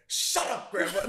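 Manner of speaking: 2 giggling through the quote; 3 laugh it out high; 4 amused retelling, breaking into laughs. Retold or imitated.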